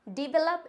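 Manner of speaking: Develop as "di-vel-up", slowly; slow correct pronunciation. Shown as a demonstration. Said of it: "is the right pronunciation".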